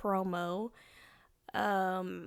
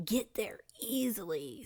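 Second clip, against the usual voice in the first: whispered aside; 4 dB quieter than usual. Real, not acted. Trailing aside.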